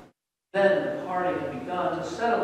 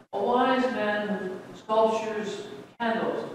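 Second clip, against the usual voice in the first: slow gentle; 3 semitones higher, slower than usual. Acted. Jacob explains gently.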